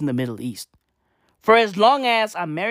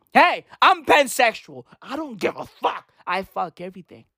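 mock slogan; 2 semitones higher than usual. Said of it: "official pansexuality slogan".

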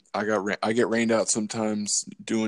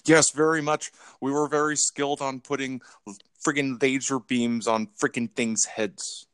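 Dr. Evil. Acted. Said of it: "I lost this accent".

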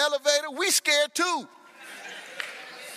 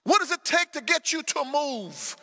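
raised, pleading shout at heaven; crying out to God; 5 semitones higher than usual. Acted. Preacher voicing the prophet, shouting at God in protest. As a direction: demand an answer from a silent God.

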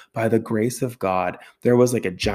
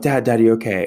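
urgent call; 6 dB louder than usual. Retold or imitated. Calling out to fallen dad.

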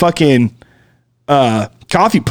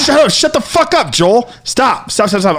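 panicked yelling; 6 semitones higher than usual. Retold or imitated. Panicked argument reenacted.

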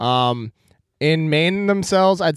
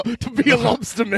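put-on Maine accent; 7 semitones higher than usual. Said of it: "What is that accent?".

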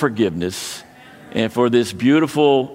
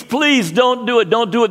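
pleading; 9 semitones higher than usual. Retold or imitated. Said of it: "he pleads".

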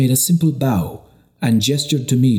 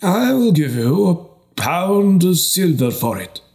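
high, slow, breathless greedy offer; greedy bishop bidding breathlessly; 9 semitones higher than usual. Acted. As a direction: gasp out the bid, hungry for the prize.

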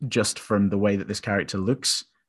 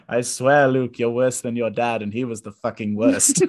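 joking rant breaking into laughter; mock ghost rant. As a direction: tease it and laugh through the end. Mock ghost Ben line, laughing.

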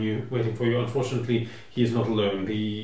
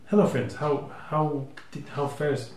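nervous English voice; 3 semitones higher than usual. Acted. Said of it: "He was sort of nervous and English".

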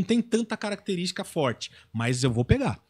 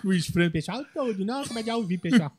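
higher, louder put-on comedian voice; Igor Guimarães impression; 7 semitones higher, 7 dB louder, slower than usual. Comedian doing a friend's voice for the show, high and loud. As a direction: greet the fans as the comedian. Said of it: "Vou chamar o Igor aqui e ele imita".

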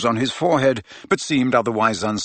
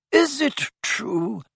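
1 whispered; 11 semitones higher, much slower than usual. A narrator's reading. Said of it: "whispered the fat lady".

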